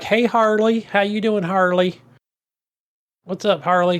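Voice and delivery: lightly put-on Southern greeting; casual hello in a slight Southern accent; mock Southern accent. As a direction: imitate coworkers with a hint of Southern twang. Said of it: "They don't use a Southern accent".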